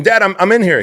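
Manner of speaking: loud, high call to dad; comic high-pitched shout; retold child's protest. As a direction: protest loudly from the bathroom.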